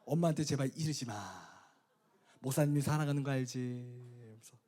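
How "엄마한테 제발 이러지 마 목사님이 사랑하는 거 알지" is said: mild mock pleading with a child; coaxing, soothing. Pastor placating a second-grader not to tell Mom, coaxing. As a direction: coax the child gently. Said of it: "그렇게 달려줬습니다".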